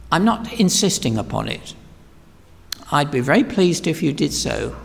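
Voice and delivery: mock-apologetic God, low and hesitant; tentative, polite request with long hesitant pauses; rather apologetic. Preacher imagines God asking us to worship him, apologetically. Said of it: "saying to us rather apologetically".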